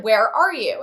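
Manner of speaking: insistent retold question; exasperated demand. Daughter asking dazed dad his location, exasperated. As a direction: press for an answer, exasperated.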